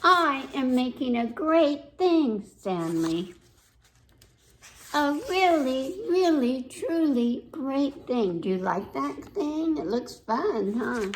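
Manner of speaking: put-on mildly huffy little girl talking to Stanley; lightly voiced little girl. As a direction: read it as a pouting child who won't play.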